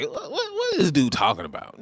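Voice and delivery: high what, what in disbelief; reacting to the troll in disbelief; mock disbelief. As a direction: act baffled by the comment. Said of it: "I'm like".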